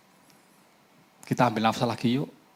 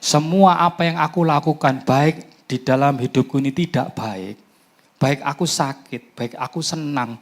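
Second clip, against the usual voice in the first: prayer that builds louder and higher; fervent prayer; 4 semitones higher, 4 dB louder than usual. Acted. Preacher declares trust to God, building fervent prayer. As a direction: pray with growing conviction.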